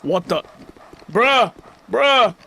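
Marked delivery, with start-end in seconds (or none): 1.1-2.4 short loud high outbursts, falling; exasperated shout. Real, not acted. Gamer fed up with the game, exasperated high shouts. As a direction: shout each one in disbelief.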